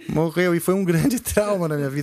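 light laugh through sad words; talking while chuckling. Real, not acted. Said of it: "Tô falando rindo".

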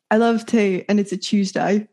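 amateur southern English accent; attempted British accent. Shown as a demonstration. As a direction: put on a British accent, a little Cockney. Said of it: "I'll do it one more time".

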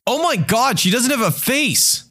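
a new dad's high, horrified mock scream; panicked scream. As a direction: shriek it like a horrified new dad. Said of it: "he screams".

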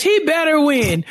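slow mock scolding shout. Scolding Apollo comically.

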